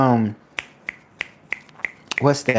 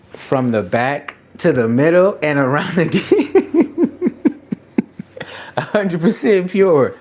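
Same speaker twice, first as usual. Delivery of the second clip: a lightly put-on high teasing voice; mock scolding a chatter, half laughing; playful mock voice; 9 semitones higher, 4 dB louder than usual. Mock scolding Lady Rock, laughing.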